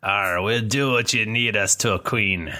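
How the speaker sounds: lightly voiced gruff dwarf; a hint of a dwarf grunt. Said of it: "That's my dwarf voice".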